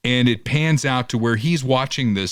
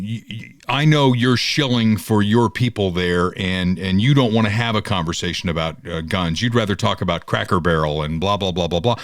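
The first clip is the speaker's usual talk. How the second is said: a lightly voiced dismissive rival; mimicking Fickle; 5 semitones lower than usual. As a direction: play him as a droning know-it-all. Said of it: "he's, like, saying".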